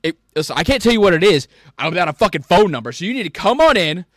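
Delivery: retold yelling match at work; heated retort. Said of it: "I'm like".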